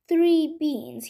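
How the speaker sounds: mildly dismissive snort; scornful snort. Acted. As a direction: scoff as if it's a poor joke. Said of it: "he snorted".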